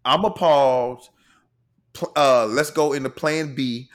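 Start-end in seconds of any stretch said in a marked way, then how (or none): 0.0-1.1 lauter, gedehnt empört; mock appalled, louder and slow. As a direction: drag out the appalled tone. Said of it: "Strong Karen".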